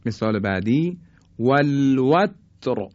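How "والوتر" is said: slow "والوتر" with a thick final R; heavy R. Shown as a demonstration. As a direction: recite "والوتر" slowly, ر full and heavy. («والوتر» آهسته، با رای درشت)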